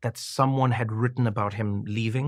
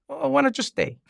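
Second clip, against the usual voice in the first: matter-of-fact; 13 semitones higher than usual. Retold or imitated. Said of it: "matter-of-fact way".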